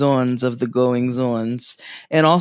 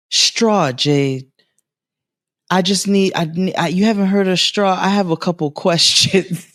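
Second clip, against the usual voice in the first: a lightly higher grandma voice; 5 semitones higher than usual. Retold or imitated. Grandma asking her granddaughter about Straw, lightly voiced. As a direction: quote grandma with a light lift.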